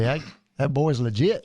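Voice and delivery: put-on slow, light Arkansas drawl on "that boy's legit"; Arkansas phrase. A podcast cohost quotes Arkansas folks praising the boy, in a slow, light Arkansas drawl. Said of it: "steal a phrase from some Arkansas people".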